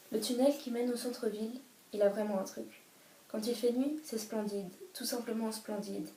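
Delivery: gentle, dreamy book reading, flowing and unhurried; a fan sharing the tunnel scene with viewers, tenderly read; novel passage read aloud. Acted. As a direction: read it like a favourite passage you love.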